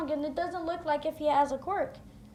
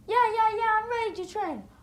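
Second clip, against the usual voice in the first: eager; 6 semitones higher, 5 dB louder than usual. Acted. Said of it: "With Izuku being happy".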